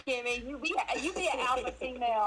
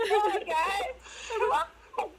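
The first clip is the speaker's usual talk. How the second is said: much higher, louder call to the group; rallying cry; 12 semitones higher, 3 dB louder, slower than usual. Real, not acted. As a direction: whip the room up. Rallying quiet group to cheer.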